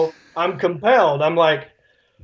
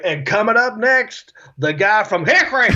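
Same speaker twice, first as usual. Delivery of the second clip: TV announcer tease; 4 semitones higher than usual. Retold or imitated. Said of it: "They'd be like".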